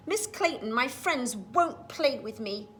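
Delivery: put-on a touch of a sad little boy, slowed; sadly. Boy tells his teacher his friends won't play, mildly sad. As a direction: plead lightly, just a hint of sorrow. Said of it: "he said sadly".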